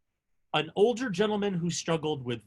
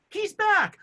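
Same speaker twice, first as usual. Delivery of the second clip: high, loud shout; a rebel shouting that Javert is back; shouted cue; 8 dB louder than usual. Retold or imitated. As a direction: call it out across the barricade. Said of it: "ba-dum".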